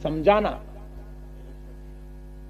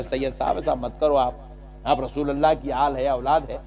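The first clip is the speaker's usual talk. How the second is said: gentle request; 3 semitones lower than usual. Shown as a demonstration. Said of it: "ایسا بولنا تھا".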